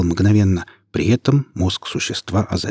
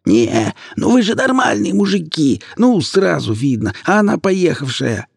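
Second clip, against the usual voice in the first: hoarse, much higher pleading squeal; hoarse shriek; 9 semitones higher than usual. A narrator's reading. The bound woman hoarsely squeals at the men, much higher. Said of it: "сипло заверещала".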